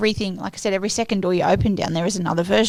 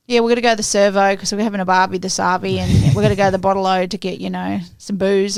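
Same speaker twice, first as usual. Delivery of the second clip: acted Aussie slang; 3 dB louder than usual. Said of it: "But yeah, we're like".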